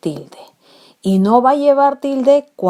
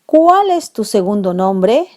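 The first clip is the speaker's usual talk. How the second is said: louder asked question, rising; question tune; 4 dB louder than usual. Shown as a demonstration. Teacher modelling an interrogative cuál, questioning. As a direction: ask it plainly as a question.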